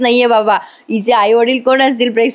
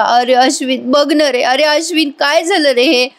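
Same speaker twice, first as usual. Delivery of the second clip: wailing; 4 semitones higher than usual. Retold or imitated. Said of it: "धायमोकलून रडायला लागते".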